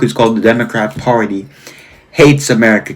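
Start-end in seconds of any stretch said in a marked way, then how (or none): 2.1-2.9 Hates set off by a pause and emphasized; stress on Hates. Real, not acted. Reading a book title to viewers, stressing Hates. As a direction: put the emphasis on the word Hates. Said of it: "Keep the emphasis on the word hates".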